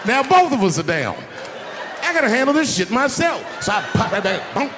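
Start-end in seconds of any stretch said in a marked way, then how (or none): 0.0-3.6 high urgent shout, building; rising panic into a yell; urgent retold alarm. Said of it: "I said".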